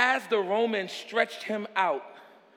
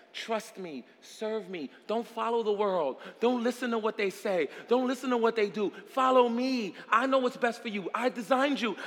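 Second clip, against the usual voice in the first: God's plea, building. Acted. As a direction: start tenderly, pile up the pleas to a cry. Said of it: "God has been saying to us".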